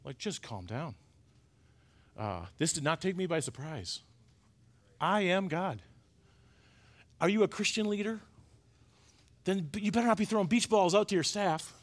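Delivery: lightly voiced God soothing a panicked pastor; a hint of a gentle God, very soft; voicing God. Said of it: "And he's like".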